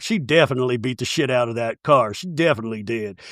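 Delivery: imitating the kid. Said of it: "And the kid's like".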